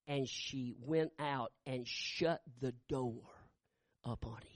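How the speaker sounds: slow, soft, dropping to a whisper; hushed storytelling. Acted. Preacher hushes his voice as the mother shuts the door, whispering. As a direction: let the door close in a whisper.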